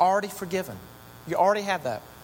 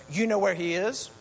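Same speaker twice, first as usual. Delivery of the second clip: clipped commands building up; Edna Mode; 2 semitones higher than usual. Retold or imitated. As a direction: Edna ordering Elastigirl into action, brisk. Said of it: "Then she says".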